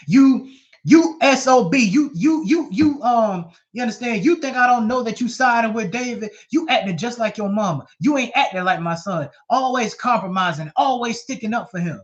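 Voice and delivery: loud, high angry rebuke; furious king scolding his son. Retold or imitated. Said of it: "Saul was fired up".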